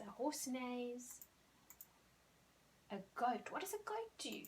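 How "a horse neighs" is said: slow, careful model sentence; slow teacher model. Shown as a demonstration. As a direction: lay it out slowly for the class. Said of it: "It neighs".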